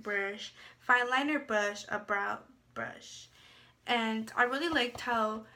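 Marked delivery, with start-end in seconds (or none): 3.9-5.4 talking through a yawn. Real, not acted. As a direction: yawn while speaking. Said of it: "sorry, I had a yawn".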